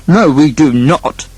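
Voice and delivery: slow, emphatic refusal; firm declaration. A narrator's reading. Eldest son overruling his brother, firm and emphatic. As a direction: declare it slowly and firmly. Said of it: "declared the eldest son".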